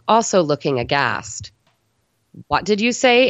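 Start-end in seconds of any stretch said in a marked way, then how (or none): 2.5-3.3 aggressive demand. A narrator's reading. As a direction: confront her head on. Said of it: "Amber asked aggressively".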